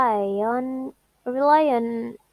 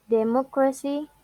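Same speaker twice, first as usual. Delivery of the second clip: de-MOC-racy, weight on MOC in democracy; stress on antepenultimate syllable; 2 semitones higher than usual. Shown as a demonstration. Teacher repeating a rule example, stress on MOC. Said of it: "penultimate syllable".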